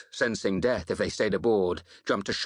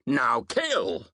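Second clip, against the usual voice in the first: battle yell leaping up on the last word; shouted war cry; 3 semitones higher than usual. A narrator's reading. Warrior leaping across the gap to attack, shouted. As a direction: shout the order to charge. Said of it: "I shouted".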